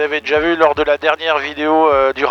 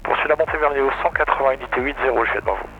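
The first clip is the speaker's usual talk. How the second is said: fast radio readback via headset; over a pilot headset; much faster than usual. Real, not acted. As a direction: rattle off the readback.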